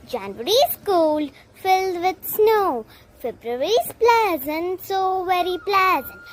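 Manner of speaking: measured verse with swinging pitch; poem recitation. Acted. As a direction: recite line by line, stressing key words.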